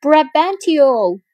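high, loud, drawn-out call up to a window. A narrator's reading. Iago calls up to the old man at his window, loud. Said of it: "Iago shouted until an old man looked out".

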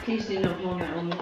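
stiff fake voice, a little fast; a put-on voice, laughing; plastic voice. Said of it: "Should I just put on a fake voice".

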